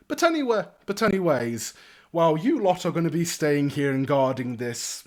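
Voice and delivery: breezy, animated noble voice; cheery young lord. Acted. Young lord reassures the town's new guards, cheery and lordly. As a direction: airily brush off the objection.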